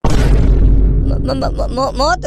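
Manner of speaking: stuttering m- m- in panic; stammering in terror; scared stammer. Acted. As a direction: choke on the word मौत in fright. Terrified stammer at death threat.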